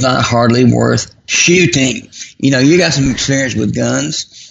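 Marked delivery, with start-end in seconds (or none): 0.0-2.1 slow, drawn-out "not hardly worth shooting"; slowly, on request. Shown as a demonstration. Guest repeats his jab at pastors for the host, slowly. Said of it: "Say that again slowly".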